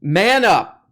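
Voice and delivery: loud barked man up; mock tough command. Mocking Peterson's manhood lecture, loud macho bark. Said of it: "show you how to m-, be a man".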